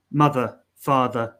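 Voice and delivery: British "mother, father" with the final R dropped; "mother, father" with schwa endings and silent R; British non-rhotic endings. Shown as a demonstration. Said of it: "they don't have an R".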